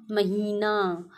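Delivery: महीना with the "ee" drawn out; long vowel in महीना. Shown as a demonstration. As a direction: stretch the ही in महीना. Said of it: "बड़ा sound आ रहा है".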